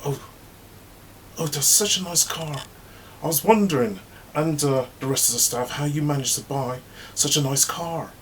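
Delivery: high needling fake compliment; fake-sweet gossip. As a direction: sweetly dig at how she paid. Mother hen probing Jay.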